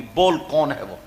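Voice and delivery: low, soft threatening question; quiet menace. Acted. King demanding the name, soft and menacing. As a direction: press her for the name, held back. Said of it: "اب بادشاہ غصے میں آ گیا".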